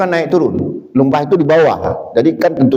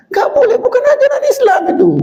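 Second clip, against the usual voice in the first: laughing rebuke; faster than usual. Real, not acted. Scolding the practice.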